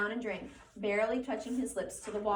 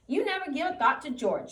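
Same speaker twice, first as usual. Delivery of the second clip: higher, louder scolding aunt; 6 semitones higher, 7 dB louder than usual. A narrator's reading. Aunt Clara keeps scolding Lenny, high loud scolding. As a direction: scold him without letup. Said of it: "she went on in Lenny's voice".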